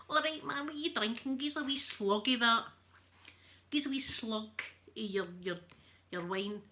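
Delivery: put-on Glasgow Ned accent, casual and cocky. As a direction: play the Scottish Ned in the pub. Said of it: "I can do Ned voice".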